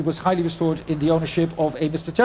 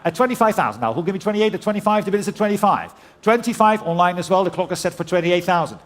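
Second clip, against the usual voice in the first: brisk auctioneer calling out bids. Real, not acted. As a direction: rattle off the bids like a saleroom auctioneer.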